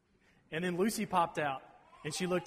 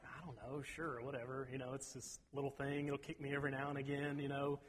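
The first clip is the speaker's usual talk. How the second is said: shrugging indifference; 2 semitones lower, 8 dB quieter than usual. Retold or imitated. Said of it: "I'm like".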